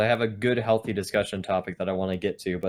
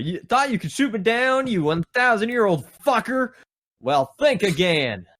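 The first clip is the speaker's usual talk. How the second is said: high, boastful taunt; triumphant yell; 9 semitones higher, 4 dB louder than usual. Acted. Hero taunting Zeus after surviving, triumphant. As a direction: crow your victory at an enemy above. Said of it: "You yelled triumphantly at the sky".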